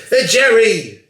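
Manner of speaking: sudden high loud call across the room. Real, not acted. Vlogger calls out to Jerry off camera, loud high call. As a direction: shout his name to get his attention.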